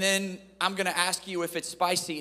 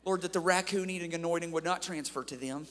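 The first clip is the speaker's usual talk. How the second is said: mock prayer. Mock prayer over the young people.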